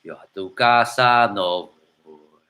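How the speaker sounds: a hint of the old singing-cowboy crooner; lightly voiced ranchera star; a ranchera singer's voice. Said of it that the speaker has to get into that singer's voice.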